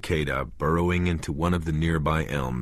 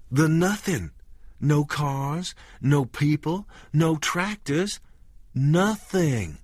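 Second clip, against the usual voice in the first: eerie dread; 9 semitones higher, slower than usual. A narrator's reading. Wife stresses eerie emptiness.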